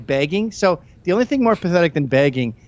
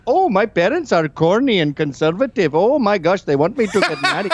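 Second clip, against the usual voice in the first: bubbly YouTuber voice with a laugh; Lily Singh imitation; 3 semitones higher than usual. Mocking Lily Singh's YouTube chatter to the co-hosts. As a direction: gush it like a rehearsed vlogger. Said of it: "talks like that. She goes".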